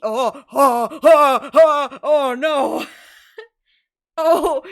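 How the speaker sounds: laughing. Real, not acted. Laughing realisation at the name.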